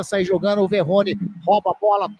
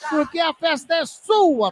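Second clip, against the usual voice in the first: shouted hype; 5 semitones higher than usual. Real, not acted. Hyping up the fans.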